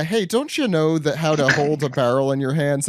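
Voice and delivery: put-on broad comic Wisconsin accent. Co-host voices one of the numbers, Wisconsin accent. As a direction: play it as a Wisconsin local. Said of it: "that's the Wisconsin".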